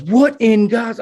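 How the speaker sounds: imitating an angry boss yelling over the radio; retold angry outburst. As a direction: fire it off like a boss losing it. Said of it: "he's going off on the radio".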